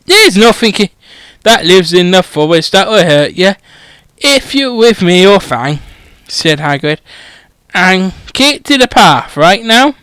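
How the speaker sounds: a hint of a rough, boozy giant; lightly voiced groundskeeper. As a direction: tell it like a gruff pub regular. Groundskeeper continues instructions, pub story.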